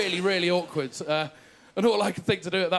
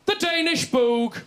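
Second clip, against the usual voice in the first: slow, higher, deliberate The Danish boog; insistent repeat; 9 semitones higher, slower than usual. Retold or imitated. Dad insisting on his order to the baker, slow and higher. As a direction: plough on with total confidence. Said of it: "so he replied".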